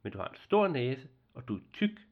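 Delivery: put-on a frank little girl teasing; cheeky girl. Girl bluntly teases the nisse about his nose.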